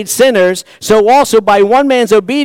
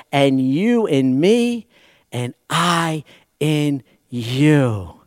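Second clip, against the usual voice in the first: tender quote; 2 semitones lower, slower than usual. Acted. Preacher quoting Jesus tenderly.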